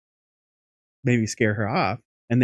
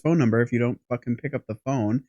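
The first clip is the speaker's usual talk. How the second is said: louder, fast exasperated telling-off; retold rant at phone; 2 semitones higher, 5 dB louder than usual. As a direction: vent at the useless phone line. Ranting at unanswered non-emergency line.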